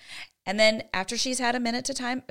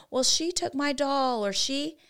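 lightly voiced child, higher pitch; child explaining herself; 5 semitones higher than usual. Child blaming a friend to her mom, explaining herself. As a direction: make a higher, drawn-out excuse. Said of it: "she's gonna explain".

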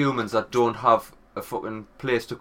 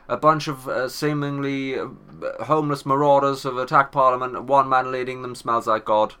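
news reporter voice. Pretend. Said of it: "on the news, it's gonna be like".

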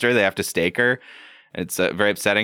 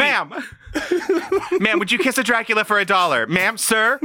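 high campy voice with laughs; campy Dracula; 12 semitones higher than usual. Pretend. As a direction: flirt like a diva vampire. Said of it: "Dracula's voice".

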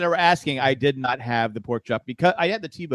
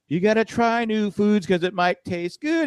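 slow, lightly raised coaxing line; singsong teacher line; 6 semitones higher, slower than usual. Retold or imitated. Dad coaxing his son to try crackers, slow singsong. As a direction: coax a toddler with the show's line. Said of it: "I go".

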